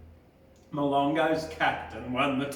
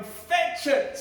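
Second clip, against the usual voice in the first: called command; 10 semitones higher than usual. A narrator's reading.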